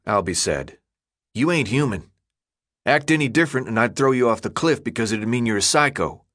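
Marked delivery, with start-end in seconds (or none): 1.3-6.2 a hint of a tough boy leader; lightly voiced gang leader. Leader sizing up a scared newcomer, lightly voiced tough talk.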